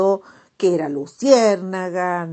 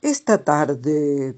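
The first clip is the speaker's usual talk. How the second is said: slow, louder dreamy toad; storybook toad voice; 2 semitones lower, 4 dB louder, much slower than usual. Acted. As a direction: tell the dream slowly, savoring it.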